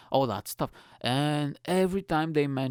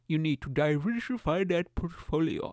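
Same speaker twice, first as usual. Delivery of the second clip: mock investment guru; 2 semitones higher than usual. Advice-giver answers the squeaky listener.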